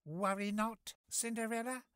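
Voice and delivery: high, gentle and reassuring; smiling reassurance. Acted. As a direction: say it with a kind smile. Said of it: "said the fairy godmother with a smile".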